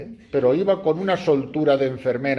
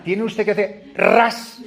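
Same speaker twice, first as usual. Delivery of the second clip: slow mock advice; 7 semitones higher, 4 dB louder, slower than usual.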